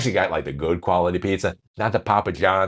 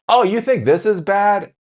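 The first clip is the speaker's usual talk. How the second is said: smug boss; 13 semitones higher, 5 dB louder than usual. Retold or imitated. Mock Zuckerberg boast.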